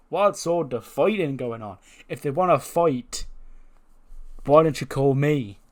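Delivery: lightly put-on brawler's voice, drawn out; Sheamus. Wrestler butting in on a fight, lightly impersonated. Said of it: "Out comes Sheamus".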